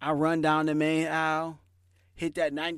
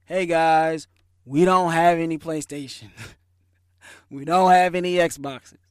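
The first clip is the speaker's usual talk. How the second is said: louder announcement to the crowd; calling out; 7 dB louder than usual. Retold or imitated. Manager telling waiting shoppers there are none, called out loud. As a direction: project it like a manager addressing the line.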